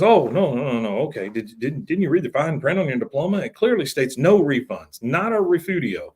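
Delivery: hammed-up brush-off of a customer; smug con man. Con man refusing the woman, mock smug.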